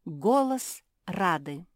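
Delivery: usual speaking voice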